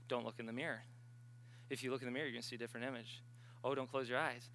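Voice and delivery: eerie hush. Retold or imitated. Fearful thoughts in the shower.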